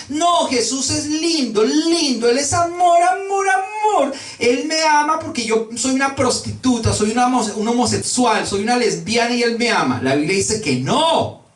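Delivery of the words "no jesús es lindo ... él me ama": high, gushing mock-sweet parody; mocking naive believer. Preacher parodies believers who deny Jesus punishes, mock-gushing. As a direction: sing out the praise in an exaggerated high voice.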